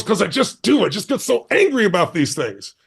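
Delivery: lightly acted irritated woman; mildly angry retelling. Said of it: "talking so angrily".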